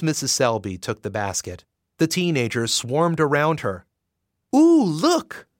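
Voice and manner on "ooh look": much higher, louder squeal; a girl thrilled by a gift; excited shout. Acted. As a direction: shout in delight. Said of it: "one of the girls shouted".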